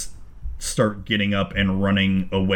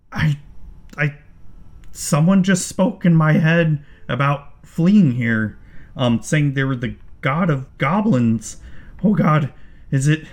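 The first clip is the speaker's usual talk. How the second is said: panicked goblin; 6 semitones higher than usual. Acted. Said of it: "and he's like".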